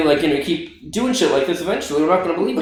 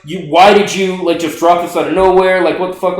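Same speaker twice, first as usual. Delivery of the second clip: freaking out text; 4 semitones higher than usual. Retold or imitated. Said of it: "I'm totally freaking out".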